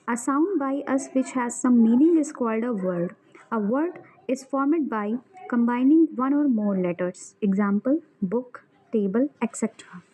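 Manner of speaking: reading a textbook definition slowly, word by word; slow dictation. Acted. Teacher dictating a grammar definition to students, slow and deliberate.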